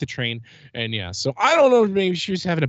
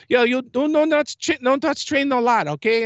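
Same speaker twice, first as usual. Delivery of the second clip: a slightly higher, lightly put-on voice of the attendant; imitating the lady; 8 semitones higher than usual. Recounting the attendant's final warning, in a lightly mimicked higher voice. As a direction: mimic her warning him off the train. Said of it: "This is how she sounded".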